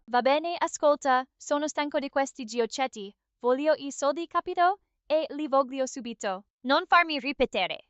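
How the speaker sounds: a hint of an Italian mobster, speaking Italian; Italian mobster impression. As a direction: do a mild mobster act in Italian. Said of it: "Let's hear your best, uh, Italian mobster".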